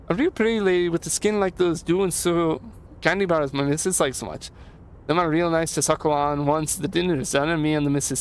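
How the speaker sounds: lightly lilting, chatty handyman; a hint of folksy, proud busy helper; lightly voiced Leo. Voices Leo in game dialogue.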